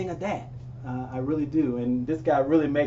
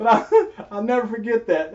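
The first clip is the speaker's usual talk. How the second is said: laughing; 4 semitones higher, 4 dB louder than usual. Real, not acted. Laughing about the memory.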